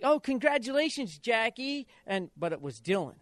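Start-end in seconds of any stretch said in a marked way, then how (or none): 0.0-1.9 mock congratulations. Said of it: "everybody's like".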